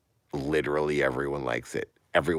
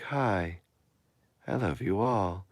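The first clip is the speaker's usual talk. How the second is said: higher, robotic voice; Dad character; 4 semitones higher, 5 dB quieter than usual. Acted. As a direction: say it like a friendly robot. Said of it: "Dad talks like this".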